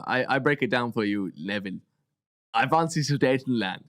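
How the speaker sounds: mock German accent. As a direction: play Hitler with a hammed-up German accent. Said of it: "What is that accent?".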